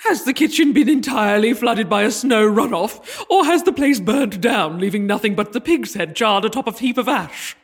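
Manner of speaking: haughty scolding. Acted. Queen scolding servant theatrically.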